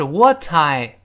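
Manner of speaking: "what I" with a crisp t before "I"; original unvoiced T. Shown as a demonstration. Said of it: "本来是". (“what I”保留清辅音t)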